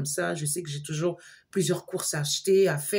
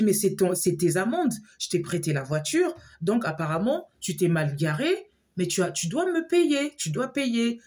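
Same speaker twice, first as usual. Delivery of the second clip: insistent demand; 3 semitones higher than usual. Retold or imitated. Woman demanding her friend pay the parking fines, insistent. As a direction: press him hard to pay.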